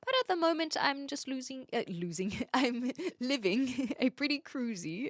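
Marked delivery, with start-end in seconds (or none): 2.5-5.1 giggling through the words; laughing. Real, not acted. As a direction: laugh while saying it. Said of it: "is why I said losing".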